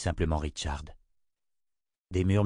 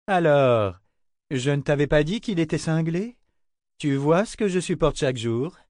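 exaspérée; 7 semitones higher, 4 dB louder than usual. Acted. Kara s'emporte contre Richard.

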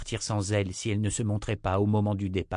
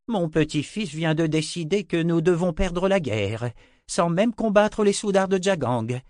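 put-on higher, louder, scornful old man voice; indignant old wizard; 8 semitones higher, 4 dB louder than usual. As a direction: grandfather complaining about his grandson to Djebra. Zed complains to Djebra indignantly. (vieux sorcier indigné, voix plus aiguë)

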